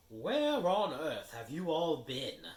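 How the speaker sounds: high, loud, slow indignant; scolding Fat Lady. Acted. The Fat Lady scolds the late students, indignant. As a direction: demand an answer.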